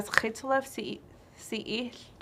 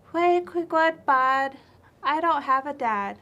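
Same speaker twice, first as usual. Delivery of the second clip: high, loud, startled chipmunk voice; chipmunk's surprised reply; 5 semitones higher, 8 dB louder, slower than usual. Acted. Little chipmunk answers Owl Lady, high and startled. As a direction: squeak it out, caught off guard.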